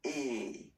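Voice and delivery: E said as a closed French é, like "ay" without the glide. Shown as a demonstration. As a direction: say E as a tight, closed é sound. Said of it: "you will pronounce the, the letter like".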